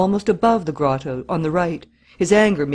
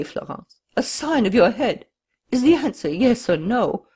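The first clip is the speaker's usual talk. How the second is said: higher, pressing, begging and threatening at once; desperate, higher-pitched entreaty; pleading passion; 5 semitones higher than usual. A narrator's reading. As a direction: plead with her, urgency building. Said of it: "a restrained passion that set his voice trembling".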